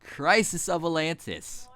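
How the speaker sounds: mock-grand title reveal, slowing on the title; put-on chapter announcement. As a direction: announce the chapter with playful pomp. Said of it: "why I'm talking like this".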